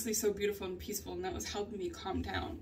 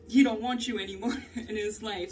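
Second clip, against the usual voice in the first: laughing; 5 dB louder than usual. Real, not acted. Laughing while retelling.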